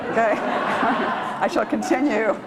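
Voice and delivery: giggling through the words; laughing. Real, not acted. Poet laughing at herself between poems, giggly. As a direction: laugh it off, a bit embarrassed.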